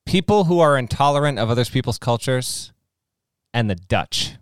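slow, deliberate mock declaration; movie quote. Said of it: "It's an Austin Powers quote".

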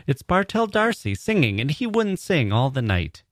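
put-on very high-pitched excited young hostess; high, swooping excitement; exclaiming. A narrator's reading. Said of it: "exclaimed Mary Jane".

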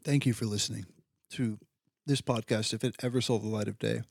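talking while crunching chips; words through a mouthful of chips. Real, not acted. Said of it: "Sorry for all the crunching".

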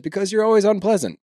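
mock snippy Meredith. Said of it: "And Meredith says".

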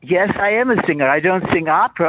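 ordinary talk, nothing marked

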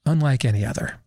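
lightly voiced hushed sports announcer; a hint of a reverent broadcast call; mild mock Jim Nantz delivery. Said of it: "in my best Jim Nantz voice".

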